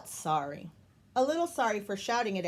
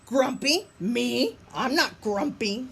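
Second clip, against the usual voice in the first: indignant denial; 3 semitones higher, 5 dB louder, slower than usual. Acted. Jim denies indignantly.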